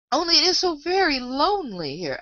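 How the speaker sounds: high, plaintive lament; lonely and sorrowful, pitched well up; melancholy. A narrator's reading. Alice lonely in the wood, melancholy. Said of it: "said in a melancholy voice".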